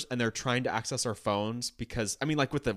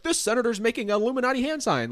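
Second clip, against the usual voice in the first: conspiracy theorist voice; 10 semitones higher, 4 dB louder than usual. Retold or imitated. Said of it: "is like".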